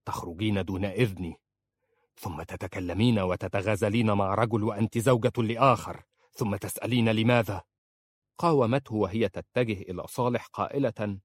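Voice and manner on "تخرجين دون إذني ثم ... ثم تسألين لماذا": stern. Acted. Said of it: "وقال في صرامة".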